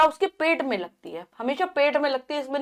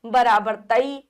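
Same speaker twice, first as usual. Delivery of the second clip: very slow, each part held apart; slow spelling out; much slower than usual. Shown as a demonstration. Teacher slowly spelling a syllable for children. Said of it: "इस प्रकार से होती है".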